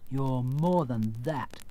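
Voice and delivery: slow, mildly wounded reproach; grieved. Acted. Scarecrow reproaching the false wizard, grieved. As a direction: draw it out with understated hurt. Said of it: "said the Scarecrow in a grieved tone".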